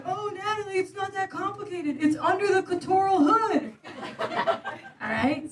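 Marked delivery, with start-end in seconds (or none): 0.1-3.7 patronizing mansplainer. Retold or imitated. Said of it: "And you're gonna say".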